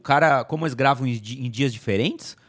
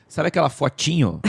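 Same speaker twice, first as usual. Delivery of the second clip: voice cracking; 2 semitones higher than usual. Real, not acted. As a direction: voice breaking mid-question. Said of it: "falhou a voz do Gabriel".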